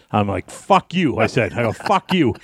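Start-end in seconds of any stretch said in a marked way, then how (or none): 0.5-1.2 retold defiance. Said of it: "I just start yelling". 1.7-2.3 higher, defiant retort without real volume; mildly raised voice, refusing to give in; mock angry comeback; retold angry yell. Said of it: "I just start yelling".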